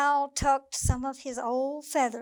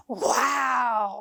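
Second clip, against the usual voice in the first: amazed wow. Acted. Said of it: "Squirrel gasped".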